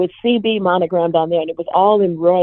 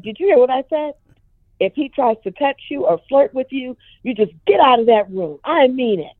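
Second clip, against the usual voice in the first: higher, stern warning to his daughter; enraged dad; 6 semitones higher than usual. Retold or imitated. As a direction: lay down the law, mildly voiced. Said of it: "he was just enraged".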